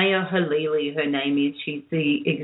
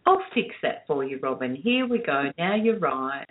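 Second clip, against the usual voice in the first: calm, reassuring producer voice; imitated calm voice; 3 semitones lower than usual. Producer reassuring the panicking host on the phone, calm voice. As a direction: imitate someone soothing a panicked caller. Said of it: "she'd have this beautiful, calm voice".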